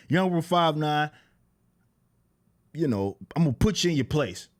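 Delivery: said with your chest, confident; confident threat. Shown as a demonstration. Showing the rival how to threaten, said with confidence. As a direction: show how the threat should land, with conviction. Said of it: "like, and then say".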